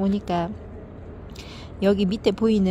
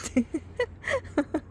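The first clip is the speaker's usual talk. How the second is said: embarrassed laugh; 8 semitones higher, 6 dB quieter than usual. Real, not acted. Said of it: "이렇게 호들갑스럽습니다".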